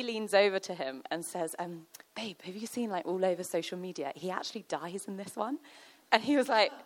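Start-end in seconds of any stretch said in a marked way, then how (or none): 2.2-5.6 softly confiding during a film; lowered cinema voice; hushed aside. Acted. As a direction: lean in with a quiet bit of gossip.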